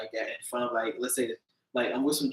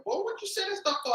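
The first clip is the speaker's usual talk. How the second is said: high, pitched-up scolding parent voice; scolding elder; 3 dB quieter than usual. Retold or imitated. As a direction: scold the kid like a disapproving elder. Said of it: "just be like saying".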